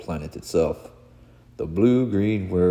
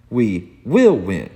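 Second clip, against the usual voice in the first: slow, breaking vow; voice cracking; 3 semitones higher, 6 dB louder, slower than usual. Acted. Clark promising the world victory, a slight voice crack. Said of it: "The crack in Clark's voice just there".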